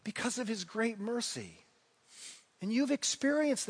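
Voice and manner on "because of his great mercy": soft echo. Shown as a demonstration. Echoed answer, softer.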